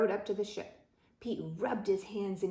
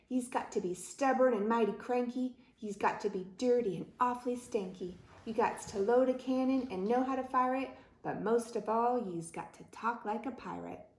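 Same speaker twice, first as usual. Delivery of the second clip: raised, rhythmic pirate voice; pirate captain declaring; 3 semitones higher than usual. Acted. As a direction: lay down the rules like a pirate captain. Pirate captain lists his demands.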